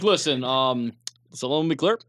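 measured presidential impression, slowing as it goes; Barack Obama. Comic answers a jab at his impression, mock-statesmanlike. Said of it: "his Barack Obama impression sounds like Chris Rock".

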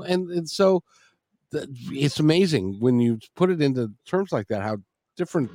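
usual speaking voice

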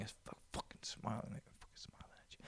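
hushed whispered aside. Acted. Mock whisper about smiling behind the mask. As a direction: drop to a secret whisper.

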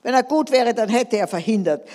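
hoch und laut geschrien, langsam bei „Ist Gott gut?“; zorniger Schrei. Acted. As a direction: den wütenden König herausschreien. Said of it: "schrie der König". (der König schreit zornig seinen Diener an)

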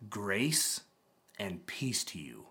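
quiet blessing. Shown as a demonstration. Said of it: "blessing the congregation".

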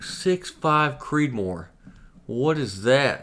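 drawn-out, high, clueless echo; feigned bafflement. Retold or imitated. Customer trolling the clerk, mock-baffled. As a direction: play dumb, stretching out the question.

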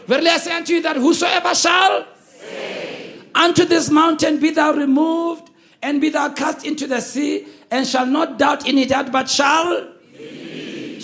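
projected scripture read-along, stretching the final cue; leading a read-along. Real, not acted. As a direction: recite the verse out for all to follow. Leading congregation in reading verse.

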